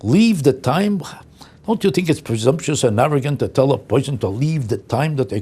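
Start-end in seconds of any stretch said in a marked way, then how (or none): 0.0-1.0 incredulous echo. Real, not acted. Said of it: "That's the most offensive thing".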